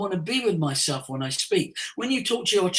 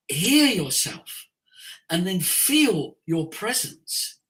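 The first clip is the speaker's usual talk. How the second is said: slow, calm guidance; slower than usual. Shown as a demonstration. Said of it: "demonstrates slow delivery".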